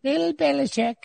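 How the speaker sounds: high, hammed-up old English lady accent; English impression. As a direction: put on a posh English accent as a joke. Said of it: "sick of the speaker's English impression".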